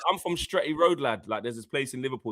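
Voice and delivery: lightly imitated Scouse accent; mock Liverpool accent. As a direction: put on a hint of Scouse. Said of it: "you can put the Liverpool accent on".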